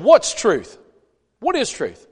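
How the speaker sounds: a touch of brushing-off exasperation; frustrated Pilate. Retold or imitated. Preacher shows Pilate's real tone, mildly exasperated. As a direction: toss the question off, not wanting an answer. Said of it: "I think he's frustrated".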